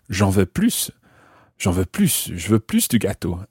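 every "plus" ending in a clear S; sounded final S. Shown as a demonstration. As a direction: pronounce the S in each "plus". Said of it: "there you're hearing the S".

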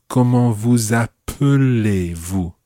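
"appelez-vous" drawn out, weak "uh" in the middle; careful middle vowel. Shown as a demonstration. Teacher showing learner the middle of the word, slow "ap-uh-lay-vous". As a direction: slowly show "appelez" as ap-uh-lay. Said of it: "in the middle of that phrase".

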